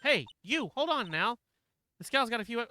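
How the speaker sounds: loud, high Southern holler; Southern accent. Acted. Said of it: "that southern accent".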